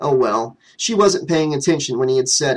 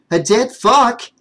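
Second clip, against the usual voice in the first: disbelief; 8 semitones higher, 4 dB louder, slower than usual. Acted. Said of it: "asked in disbelief".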